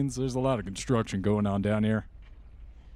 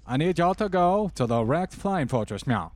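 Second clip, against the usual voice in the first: put-on thick Bell accent; 4 semitones higher than usual. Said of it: "I need you to understand my accent".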